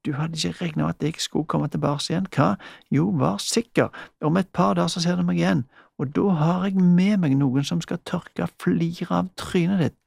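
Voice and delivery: angry threats. Acted. Frøken Bregne threatens Mikkel, mildly heated and quick. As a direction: lash out and threaten him.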